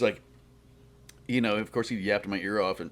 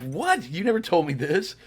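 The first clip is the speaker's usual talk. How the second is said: higher, louder mock disbelief; surprised; 11 semitones higher, 6 dB louder than usual. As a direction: act out a stunned "you never told me". His shocked reply to Sophia.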